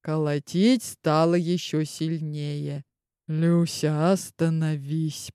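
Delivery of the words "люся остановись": soft strained moan, trailing off. Acted. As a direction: groan it out quietly, barely holding on. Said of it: "простонал я". (простонал, тихо и сдавленно)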